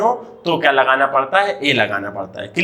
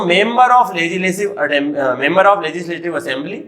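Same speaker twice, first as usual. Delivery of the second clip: slow spelling out; much slower than usual. Shown as a demonstration. Teacher to children, slowly spelling out MLA. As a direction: draw out Member of Legislative Assembly slowly. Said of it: "एमएलए मतलब क्या होता है".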